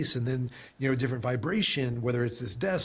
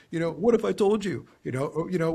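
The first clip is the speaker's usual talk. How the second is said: ad hook voice; 4 semitones higher, 3 dB louder than usual. Shown as a demonstration. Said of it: "getting attention with an ad, a hook".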